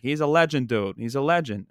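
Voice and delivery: lightly imitated Boston accent. Buddy praising the coach to him, light Boston accent. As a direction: quote a buddy with a touch of Boston. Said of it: "in his, in his Boston accent".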